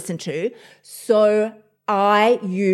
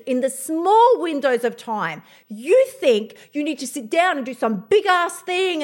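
fired up; 5 semitones higher than usual. Real, not acted. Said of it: "I'm a little fired up today".

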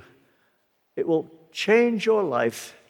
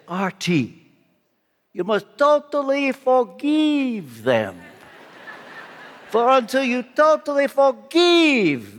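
put-on Romanian accent. Friend commands the preacher to forgive, slow emphatic Romanian accent. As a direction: imitate a solemn Romanian friend, stretching the key words. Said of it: "in his Romanian accent".

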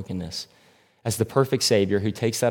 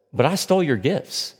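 shocked protest; 5 semitones higher than usual. Retold or imitated. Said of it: "shocked as we would all imagine".

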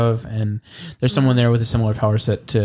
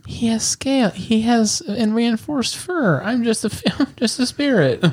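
spirit voice; 11 semitones higher than usual. Acted.

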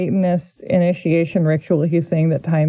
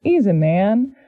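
Dean's voice. Acted. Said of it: "That's how Dean talks".

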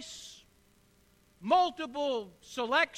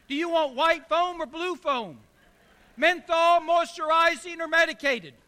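rising, louder rush of questions; overwhelmed by choices; 2 semitones higher, 4 dB louder than usual. Acted. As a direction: pile on the choices faster and louder. Wife's overwhelming list of options.

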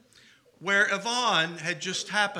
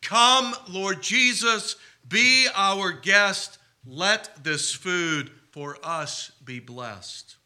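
slow, solemn mealtime grace; slow grace prayer; slower than usual. Retold or imitated. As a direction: pray it slowly like a dinner blessing. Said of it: "always prayed this particular prayer".

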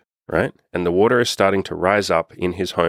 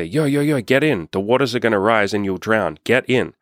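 a mildly hammed-up rescuer waving him in; urgent boat rescuers; 2 semitones higher than usual. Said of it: "and they say".

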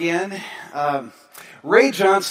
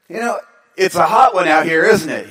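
louder, chatty small talk; louder chatty greeting; loud retold small talk; 7 dB louder than usual. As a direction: call it out friendly across the dock. Speaker makes small talk at dock.

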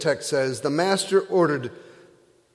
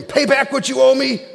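much higher, louder snarling demand; angry demand; 8 semitones higher, 6 dB louder than usual. Acted. Servant choking his fellow servant, angry shout. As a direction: bark it at the man you're choking.

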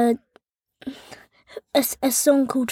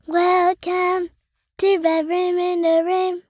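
higher, bright cheery greeting; happy; 6 semitones higher than usual. Acted. Child asked by parent to sound happy, cheery higher welcome. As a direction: sing out the welcome happily. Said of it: "Let's hear happy, happy, happy".

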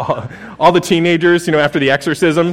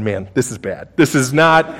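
dismayed; 3 semitones lower than usual. Retold or imitated. Rulers watching a demon shriek, low dismayed mutter. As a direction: mutter it like the day is ruined. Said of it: "synagogue rulers are going".

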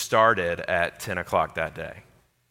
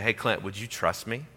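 gentle voice of God; 4 dB quieter than usual. Retold or imitated. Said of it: "he was just saying".

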